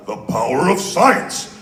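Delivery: proud, booming scientist impression; theatrical character voice, relishing it; Winston. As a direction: declare it grandly like a heroic science buff. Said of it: "let me do my Winston".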